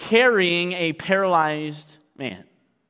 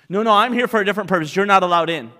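cold dismissal; 4 semitones higher, 5 dB louder, much faster than usual. Acted. Pharisee turning people away.

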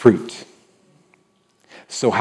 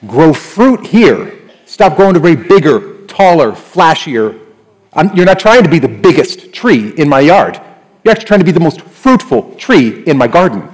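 firm talking-to; 5 semitones higher, 5 dB louder than usual. Acted. Gardener telling his tree to grow fruit, loud and firm. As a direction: lay down the law to the tree.

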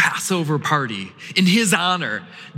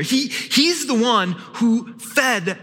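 excited gossip; 3 semitones higher than usual. Acted. Crowd gossip voiced.

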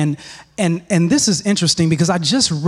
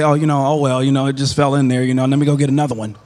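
lower, offhand and fast shrug-off; nonchalant; 3 semitones lower, faster than usual. Retold or imitated. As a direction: brush it off like it's nothing. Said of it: "he didn't nonchalantly say".

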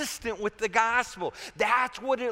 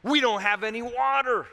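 mock whine of complaint, louder and higher; complaining; 4 semitones higher, 4 dB louder than usual. Thirsty Israelites grumble to God after the Red Sea, complaining. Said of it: "They complained".

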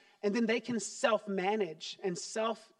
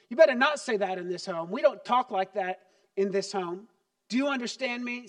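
a loud, stern laying down of the house rule; stern parent scolding; 5 dB louder than usual. Retold or imitated. Parent's classic line to a rude kid, stern scolding. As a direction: scold the child, firm and heated. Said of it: "here's my classic".

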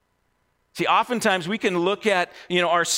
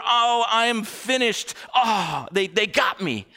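mock despairing; 2 semitones higher than usual. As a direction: act out a beaten man's despair, lightly. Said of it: "a despairing kind of".

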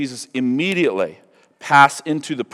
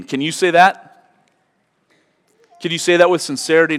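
pointed challenge; 5 semitones higher, 3 dB louder than usual. Real, not acted. Challenging the congregation.

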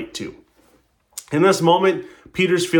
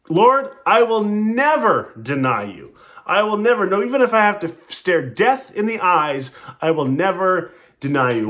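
earnest vow; 4 semitones higher than usual. Acted. Peter vowing to Jesus he will never deny him, earnest raised plea.

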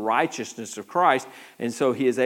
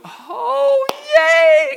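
much higher and louder squeal of delight; mock glee; 14 dB louder than usual. Believers picturing heaven, in a mock gleeful squeal. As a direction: squeal it like an overeager child. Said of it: "we think we're gonna go".

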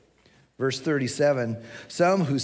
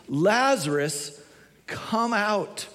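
slow, drawn-out commanding call; calling out loudly; 7 semitones higher, slower than usual. A narrator's reading. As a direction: summon someone from afar, rising higher. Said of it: "Jesus called out in a loud voice".

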